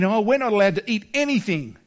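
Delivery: sulky, put-upon whine; mock grumble about the rules; whiny mock complaint. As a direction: whine like you're hard done by. Mocking complaint about God's rule.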